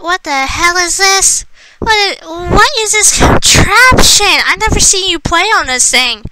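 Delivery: high, slow shocked yelling; shouting at video call. Real, not acted. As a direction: yell in disbelief at Dad.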